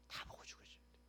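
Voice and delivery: unvoiced whisper, "다 보고" breathed out; whispered repeat. Shown as a demonstration. Pastor repeating his point to the congregation, whispered. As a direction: drop to a whisper to drive it home.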